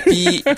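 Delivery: high, loud censor beep; bleep sound. Retold or imitated. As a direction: imitate a TV bleep. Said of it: "なんでピーやねん".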